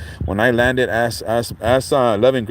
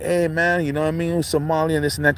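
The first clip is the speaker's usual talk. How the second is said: higher mocking voice of a local guy; lightly acting out a stranger's greeting; imitating a guy; 6 semitones higher than usual. Retelling a stranger's chatter, higher mock voice. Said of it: "he started stating, like".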